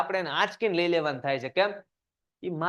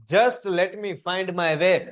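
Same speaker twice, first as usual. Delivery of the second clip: slow poem recitation; much slower than usual. Shown as a demonstration.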